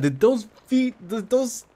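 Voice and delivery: high, breathless horror; panicked. Retold or imitated. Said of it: "'cause I was like, Oh my god".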